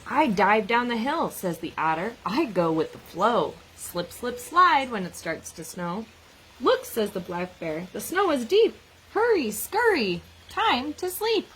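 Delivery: lively picture-book read-aloud with animal voices; reading to children. Acted. Teacher reading a snow book to children, lively read-aloud. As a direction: read it out like story time for a class.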